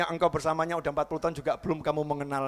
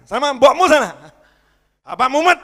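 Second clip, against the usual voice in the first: loud, higher shooing; irritated snap at child; 7 semitones higher, 11 dB louder than usual. Retold or imitated. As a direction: shoo the kid away, annoyed. Snapping at child. (membentak anak dengan kesal)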